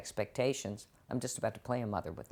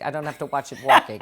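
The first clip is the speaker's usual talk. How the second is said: punchline, louder; 11 dB louder, faster than usual. Retold or imitated. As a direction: punch the last line out loud and quick. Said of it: "as I said to Scott Gimple".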